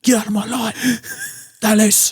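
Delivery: high-pitched mocking impression voice; squeaky imitation, pleading. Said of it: "I went too far there".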